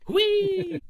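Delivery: squealed sky-high and loud, playful; gleeful whee. Pretend. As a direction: shout it like a kid on a ride. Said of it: "It's so fun to say".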